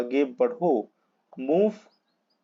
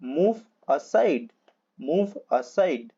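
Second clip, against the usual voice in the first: slow teaching demo; much slower than usual. Shown as a demonstration. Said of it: "teacher models the phrase".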